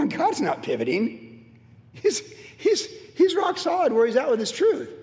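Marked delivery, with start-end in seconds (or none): 1.9-4.9 preaching at full force; emphatic shout. Real, not acted. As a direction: proclaim it with force. Preacher insists God is firm.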